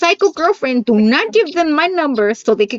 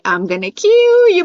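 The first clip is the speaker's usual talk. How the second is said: slow, raised-pitch mock threat; movie menace imitation; 5 semitones higher, 3 dB louder, slower than usual. Daughter to the friend who won't play, slow mock menace. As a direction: drag out the threat like a child copying a cartoon. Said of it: "And then she goes".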